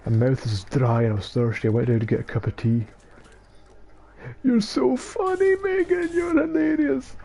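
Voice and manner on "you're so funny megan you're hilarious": sarcastic. Acted. Teasing his friend Megan.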